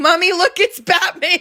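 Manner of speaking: put-on acted, high, excited toddler scream, thrilled and shouting. Reading out a comment quoting an excited toddler: imitating an excited scream. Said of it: "very excitedly ran up to a woman".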